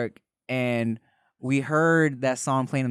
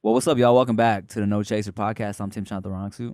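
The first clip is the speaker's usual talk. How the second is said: deep intro voice; 4 semitones lower than usual. Real, not acted. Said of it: "Why'd your voice get so deep when you did that intro?".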